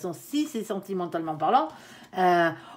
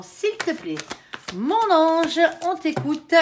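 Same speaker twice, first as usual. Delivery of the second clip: higher and slow, coaxing the angel to answer; sing-song invocation; 6 semitones higher, slower than usual. Real, not acted. Reader asks her angel to speak for Cancer, high slow coaxing. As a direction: call the angel out like a gentle chant. Invokes angel for second situation.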